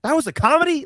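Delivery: high, loud incredulous squeak; mock disbelief at a British comedy; baffled disbelief. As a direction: act stunned it was meant to be funny. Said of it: "And I was like".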